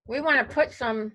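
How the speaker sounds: talking while chewing seeds; words around a mouthful of seeds; eating sunflower seeds. Real, not acted. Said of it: "sorry, I'm eating sunflower seeds".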